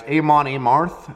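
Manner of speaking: "Amon Amarth" with long AY starting each word; questioning AY sounds in "Amon Amarth"; trying a pronunciation. Shown as a demonstration. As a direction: say "Amon Amarth" as AY-mon AY-marth.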